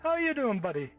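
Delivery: high pitched voice changer voice. Acted. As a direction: talk through a pitch-shifting voice changer. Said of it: "I'm gonna turn on my voice changer".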